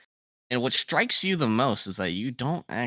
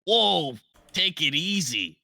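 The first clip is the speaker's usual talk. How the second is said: fussy skull voice; 3 semitones higher than usual. Acted. Skull protests.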